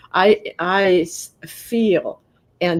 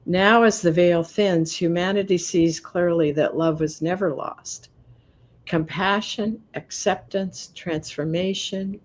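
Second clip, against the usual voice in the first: reading aloud. Acted. Reading passage from deck.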